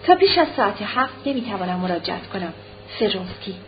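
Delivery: understated telegram reading at ordinary volume; reading telegram aloud. A narrator's reading. Anna reading Vronsky's telegram, reading it out plainly. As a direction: read out the message evenly, ending on the signature. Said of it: "او با خوشحالی این چند کلمه را خواند".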